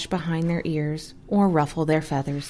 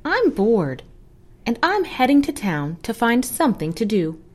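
higher squawky hen voice; squawking hen; 5 semitones higher than usual. Acted. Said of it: "the hen squawked".

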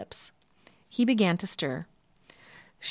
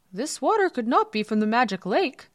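high-pitched, accusing court doctor; put-on high voice for an indignant official; 6 semitones higher, 4 dB louder than usual. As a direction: denounce the fraud in a raised pitch. Court doctor exposes the false water.

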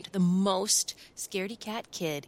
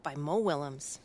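picture book reading. A narrator's reading. Librarian reads to children, storytime voice. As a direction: clear storytime narration for children.

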